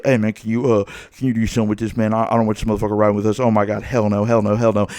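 fast, low-pitched urgent aside, still full volume; imitated under-the-breath plea. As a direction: rush it low, as if pleading privately. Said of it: "under my breath looking at Boof".

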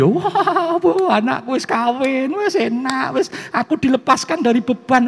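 high-pitched, laughing celebration; hammed-up overjoyed parent; mock gleeful laughter. Parents relieved their child is married, exaggerated gleeful laughing. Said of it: "terus orang tuanya guyu".

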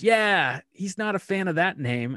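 mock daughter voice. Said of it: "She goes".

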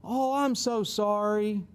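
drawn-out, put-on sympathy; slow sympathetic gushing, acted; mock sympathy. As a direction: coo it slowly, as if full of pity. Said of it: "won't find a choleric ... saying".

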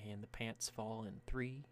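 soft, slow suspenseful countdown; bard's countdown. Acted. Bard awaiting falling pants, hushed slow countdown. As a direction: count down quietly and slowly. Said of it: "The bard just takes a second".

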